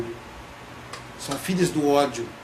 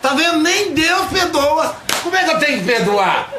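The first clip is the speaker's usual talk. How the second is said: much higher, louder, laughing gotcha; triumphant gloating; 11 semitones higher, 5 dB louder than usual. Retold or imitated. Relative seizing on the point, high loud laughing gloat. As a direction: crow over the win with a laugh.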